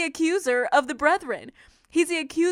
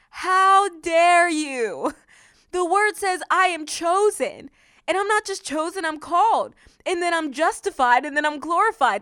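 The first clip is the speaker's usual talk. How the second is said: defiant declaration; 4 semitones higher, 4 dB louder than usual. Acted. Preacher showing what to say to the enemy, defiant. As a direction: draw out the challenge, then declare it. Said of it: "here's what you can say to the enemy".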